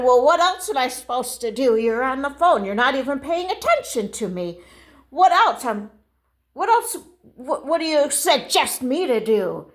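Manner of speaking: indignant retort climbing in pitch; acted affronted customer. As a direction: argue back, exasperated. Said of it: "Oh, just lower your voice".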